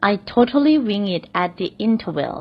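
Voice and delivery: very slow, careful repeat; slow example repeat. Shown as a demonstration. Teacher repeats the example slowly for learners. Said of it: "อีกสักหนึ่งตัวอย่าง".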